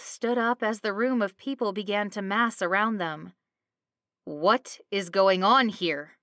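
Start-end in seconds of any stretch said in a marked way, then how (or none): 4.2-6.2 slow, alarmed cry; cried out. Acted. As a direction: demand it slowly in alarm. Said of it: "Elvin cried out".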